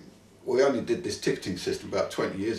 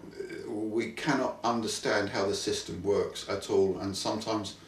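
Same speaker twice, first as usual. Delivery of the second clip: put-on German accent; 4 dB quieter than usual. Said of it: "You keep slipping into the German accent".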